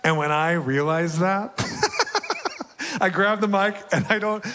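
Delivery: high, loud, laughing excitement; bubbling over with joy as you tell it; giddy and breathless with delight. Real, not acted. Overjoyed memory of prayer set.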